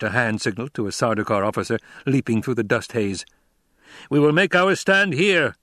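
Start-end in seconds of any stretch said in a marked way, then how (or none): 4.1-5.5 raised, commanding emperor voice; an angry emperor losing patience; cold rasping evil emperor. Acted. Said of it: "the Emperor ordered".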